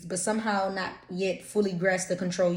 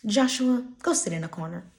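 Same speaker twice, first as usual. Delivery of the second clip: put-on calling out a child; 3 semitones higher, 5 dB louder than usual. Shown as a demonstration. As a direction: call the kid by name across the room. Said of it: "Everything sound better with curse words".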